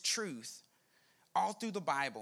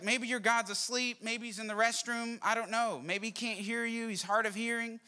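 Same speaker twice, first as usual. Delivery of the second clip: mild taunt, pitched higher and evenly held up; lightly mocking, raised voice; trash talk; 4 semitones higher than usual. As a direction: needle the rival prophets. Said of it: "Elijah is talking trash".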